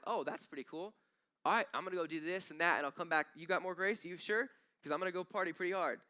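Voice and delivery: high, quick mock carefree voice; careless party-goer. Preacher mocking a careless believer, breezy and high. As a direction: play the flippant churchgoer cashing in grace.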